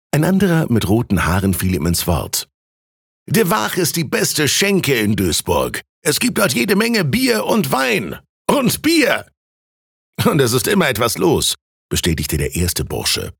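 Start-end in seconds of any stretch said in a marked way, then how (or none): 3.3-11.5 high, lively tavern praise; enthusiastic reveller. A narrator's reading. Red-haired student cutting in about the tavern, high enthusiasm. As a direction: sing the tavern's praises with rising glee.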